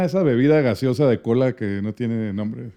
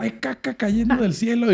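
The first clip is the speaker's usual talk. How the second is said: dramatized; 7 semitones higher, 5 dB quieter, much slower than usual. Retold or imitated. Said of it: "Hay que dramatizar".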